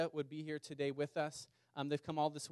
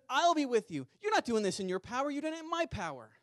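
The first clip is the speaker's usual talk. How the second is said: higher, louder, booming assurance; voice of God; 9 semitones higher, 5 dB louder than usual. Acted. God answering weak Gideon, booming and much louder. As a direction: declare it as God, firm and sure.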